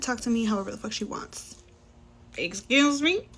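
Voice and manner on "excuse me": higher, louder, incredulous excuse me; indignant excuse me. Real, not acted. Server reacting to the rude daughter, indignant outrage. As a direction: snap it back in disbelief.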